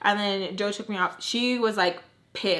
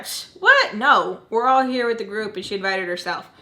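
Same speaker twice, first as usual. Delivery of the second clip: imitating his denial; 5 dB louder than usual. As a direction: brush it off with a loud pitched-up "what". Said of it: "That's how he said it".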